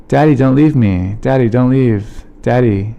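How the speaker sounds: mildly pleading, same words over and over; pleading little daughter. Retold or imitated. Daughter begging dad as he packs, lightly imitated pleading. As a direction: lightly imitate a small child's repeated plea. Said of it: "saying this over and over".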